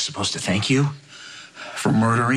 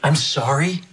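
louder, rising sarcastic echo; angry retort; 5 semitones higher, 3 dB louder, slower than usual. Acted. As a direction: fling her words back at her. Son mocks mother's apology.

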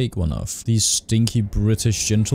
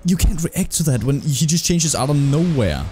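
frustrated rant; 6 semitones higher than usual. Real, not acted. Player cursing a boss that switched attacks, frustrated rant. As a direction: vent at the unfair move.

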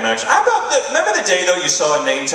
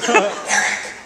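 a hint of mom on the phone; 7 semitones higher, 3 dB quieter, much slower than usual. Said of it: "She called me up".

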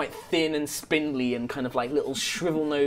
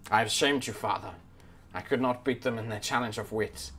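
low, subdued confession of a princely son; ashamed prince; 5 semitones lower, 9 dB quieter than usual. Acted. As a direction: admit defeat to your father, softly and lower. Disgraced prince confesses to his father.

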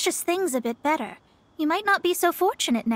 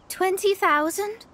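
surprised laugh; 4 semitones higher than usual. Acted. Hears reward offer, laughs.

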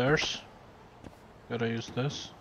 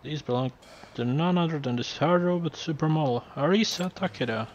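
gloating villain; 4 semitones higher than usual. Acted. Villain unveils a prize, voice rising.

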